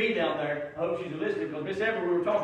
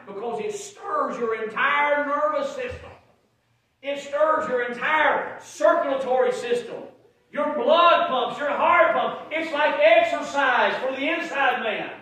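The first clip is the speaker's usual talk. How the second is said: slow, raised preacher cadence; emphatic preaching; 6 semitones higher, 5 dB louder, slower than usual. Real, not acted. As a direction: hammer each phrase out loud and high. Preaching at full force.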